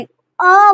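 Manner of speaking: अ held long as one separate vowel; open vowel अ. Shown as a demonstration. Teacher clarifying which vowel she means, अ sounded out. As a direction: sound out अ slowly, not as double A. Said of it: "आ मैं double ए वाला नहीं बोल रही".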